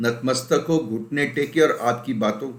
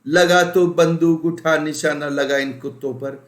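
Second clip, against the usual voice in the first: much higher, louder bandit-chief roar; Gabbar Singh; 5 semitones higher, 5 dB louder than usual. Retold or imitated. Teacher hamming up a dacoit chief calling his sidekick, loud and commanding. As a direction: bellow orders at your henchman. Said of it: "Gabbar Singh को बोलने की जरूरत होती थी".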